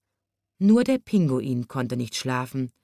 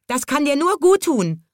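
high, louder storybook squawk; screeching parrot; 9 semitones higher, 5 dB louder than usual. A narrator's reading. Parrot jeering at the wet giraffe, screeching high. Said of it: "kreischte der Papagei".

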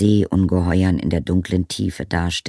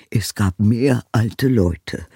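grumbled; 5 semitones higher, 6 dB louder, slower than usual. Acted. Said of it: "brummte der Zauberer".

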